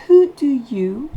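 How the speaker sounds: "who do you" run together fast; quick linked. Shown as a demonstration. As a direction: blur the words into one. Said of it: "il est presque de". ("who do you" lié et rapide)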